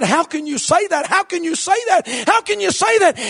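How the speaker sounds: mock outrage climbing up; rising, half-acted protest; building indignation. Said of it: "boy, she got mad".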